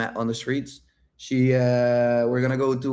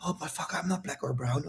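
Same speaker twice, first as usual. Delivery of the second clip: soft, dejected mumble of a beaten guy; mock a guy who gives up; deflated guy; 3 semitones higher, 11 dB quieter than usual. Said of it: "Most guys be like".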